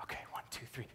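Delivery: hushed, concentrated whisper; whispered countdown. Retold or imitated. Young fencer readies his lunge for the coach, whispered countdown. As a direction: count yourself in under your breath. Psyching himself up before lunging.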